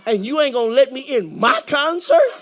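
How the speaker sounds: retold indignant challenge, stressing MY; frustrated indignation. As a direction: act out mild outrage at being kept out. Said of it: "getting a little angry and a little frustrated".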